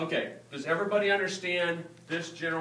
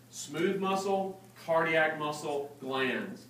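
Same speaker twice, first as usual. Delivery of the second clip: measured teacher's emphasis; slow, deliberate listing; much slower than usual. Real, not acted. Teacher giving students the key list, slow and deliberate. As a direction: space out each item, pitch stepping down to the last.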